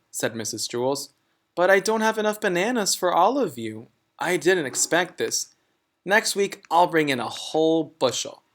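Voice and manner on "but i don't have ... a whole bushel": quick, higher, fussing teacher voice; lightly voiced flustered teacher; fast apologetic teacher. Mrs Jewls voiced in story.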